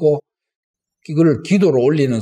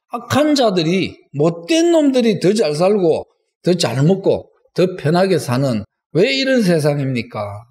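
따지는 기도; 3 semitones higher than usual. Acted. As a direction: challenge God over an unfair world. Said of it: "하나님께 따지는 사람". (억울한 듯 따져 묻는 기도)

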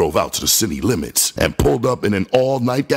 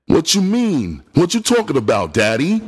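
dumbfounded; 10 semitones higher than usual. Acted. Boots shocked, disbelieving.

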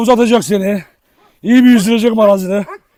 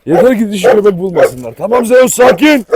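calming the dog; 4 dB louder than usual. Real, not acted.

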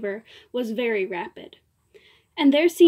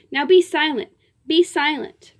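commanding; 3 semitones higher, 5 dB louder than usual. Acted. Diva silencing the uncle.

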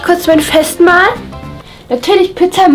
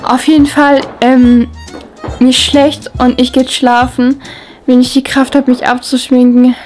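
tipsy, slightly slurred speech. Real, not acted. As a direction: talk like you've had too much. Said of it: "ich fühle mich so angetrunken".

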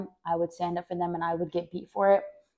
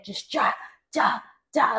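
imitated belt blows; 3 semitones higher, slower than usual.

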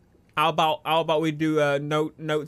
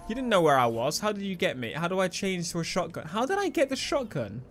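usual speaking voice

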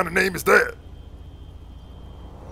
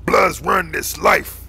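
demonstrated gang boast; 4 dB louder, much slower than usual. Shown as a demonstration. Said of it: "just be like".

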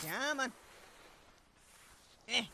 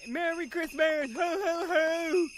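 Santa voice; 3 semitones higher, 6 dB louder, slower than usual. Pretend. Playing Santa, hamming it up.

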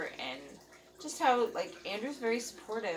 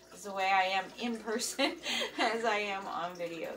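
laughing; 4 dB louder than usual. Real, not acted. Laughing about no editing.

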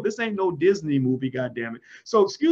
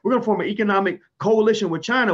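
mock eager world; 3 semitones higher than usual. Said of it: "The whole world was like".

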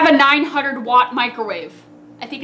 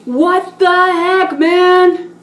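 incredulous sing-song; 5 semitones higher, 5 dB louder, much slower than usual. Real, not acted. Disgusted by the smell.

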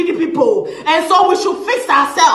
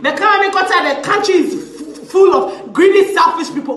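mocking; slower than usual. Mocking the critics' slogan.

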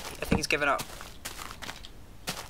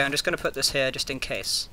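ordinary delivery

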